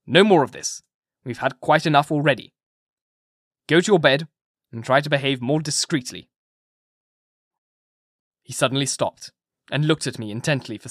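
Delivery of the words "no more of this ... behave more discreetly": firm, louder, no-nonsense order; a doctor sternly sending the patient to bed. Acted. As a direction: put an end to the scene with authority. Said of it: "I said sternly".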